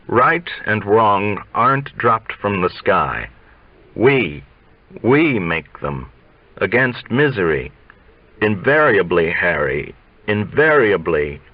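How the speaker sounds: lightly voiced old coach, slow and grave; a hint of a preachy old teacher; old coach lecturing.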